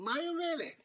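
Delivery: high, loud surprised question; surprised dragon. Acted. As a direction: sound genuinely taken aback.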